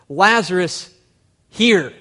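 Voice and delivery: short loud command, Lazarus, here; Jesus commands dead Lazarus like calling a dog. Retold or imitated. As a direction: bark it like calling a dog to heel. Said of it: "It's like he's commanding a dog".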